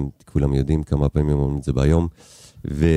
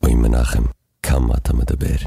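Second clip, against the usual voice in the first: loud, lower Yiddish-accented kvetch; Yiddish-accented complaint for the host's promo; 6 semitones lower, 3 dB louder than usual. Shown as a demonstration. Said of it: "תן לי עוד אחד".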